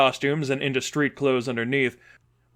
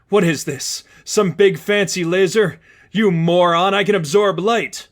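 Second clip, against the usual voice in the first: half-laughing scorn; 5 semitones higher, 5 dB louder than usual. A narrator's reading. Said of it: "She was almost laughing".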